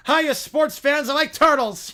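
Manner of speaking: high, drawn-out goofy greeting; goofy Curly. Acted. Stooge grabbing the stream's mic, goofy greeting. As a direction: announce it like a silly stooge.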